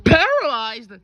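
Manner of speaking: loud, high, incredulous question; shocked echo. Acted. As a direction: throw the word back in loud disbelief.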